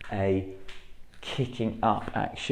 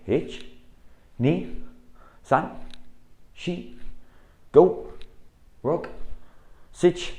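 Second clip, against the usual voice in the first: loud, high drill count; sharp dojo counting; called count; 6 semitones higher, 4 dB louder, much slower than usual. Shown as a demonstration. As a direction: bark each number to the class. Coach calls out drill count.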